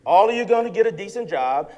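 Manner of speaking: loud, preacher-style declaration; fired-up promise. Real, not acted. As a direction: drive it home to the crowd.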